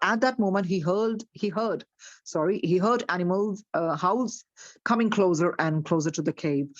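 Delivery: slow, deliberate storybook reading; story narration. A narrator's reading. Teacher reads the story slowly to her class. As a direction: read it out slowly to the listeners.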